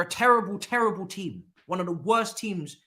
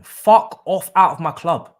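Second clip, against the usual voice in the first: furious shout; 11 dB louder than usual. Real, not acted. Fan rants at his team.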